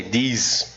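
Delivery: these said as "dis", with a d for the th; casual fast-speech version; d sound. Shown as a demonstration. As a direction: swap the th in these for a d. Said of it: "se você até falar com som de D".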